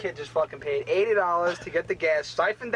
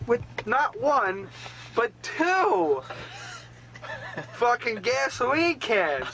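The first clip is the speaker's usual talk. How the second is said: laughing disbelief; 6 semitones higher, much slower than usual. Retold or imitated. Disbelief at two gas cans.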